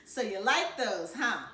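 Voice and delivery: teasing through laughter; laughing. Acted. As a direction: chuckle while asking. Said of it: "Mama and Dad cracked up".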